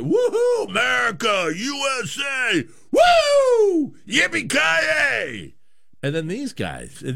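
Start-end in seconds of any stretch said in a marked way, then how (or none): 0.0-5.5 high whooping shouts, the last cheer stretched out slowly; rowdy fan whooping. Retold or imitated. Host mocking American fans to his co-host, high stretched whooping shouts. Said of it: "You see us American fans like".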